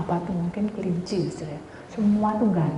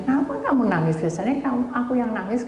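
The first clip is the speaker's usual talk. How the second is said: surprised questioning; 5 semitones higher than usual. Retold or imitated. Retells asking crying friend why.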